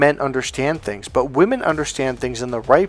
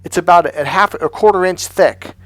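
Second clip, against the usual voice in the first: tag; 4 semitones higher than usual. Acted. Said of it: "here's how a woman expresses her emotions".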